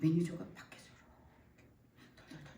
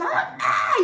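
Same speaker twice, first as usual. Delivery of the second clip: high-pitched squeal for mom; excited child's shout; much slower than usual. Retold or imitated. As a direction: call out like kids rushing the bed. 아이들이 침대로 달려들며 엄마를 부름. (신나서 엄마 부르는 아이처럼)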